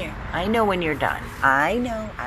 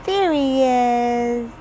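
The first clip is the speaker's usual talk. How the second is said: slow, louder drawn-out greeting; delighted slow sing-song; excited pet greeting; 2 semitones higher, 5 dB louder, much slower than usual. Real, not acted. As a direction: stretch it out to the dog. Greeting dog in baby talk.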